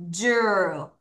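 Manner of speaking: "jewel" repeated low as one falling syllable, jer; isolated second syllable "jewel", said jer; syllable demo. Shown as a demonstration. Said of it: "S S O R 이".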